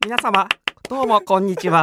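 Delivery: stiff robot-like greeting. Pretend. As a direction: say it like a robot, mechanical. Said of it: "ちょっとロボットみたいになってますね". (ロボットみたいな声)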